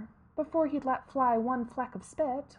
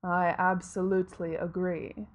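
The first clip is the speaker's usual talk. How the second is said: grim reaper voice; 3 semitones lower than usual. Acted. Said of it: "said Death".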